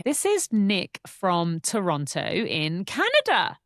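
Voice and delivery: slow build-up to a big reveal; excited reveal. Real, not acted. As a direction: announce it slowly, with relish. Big reveal of listener's country.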